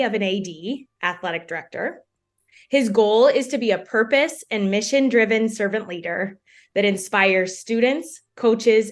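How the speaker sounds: measured, clearly read host introduction; scripted podcast intro. Real, not acted. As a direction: present the guest like a podcast host.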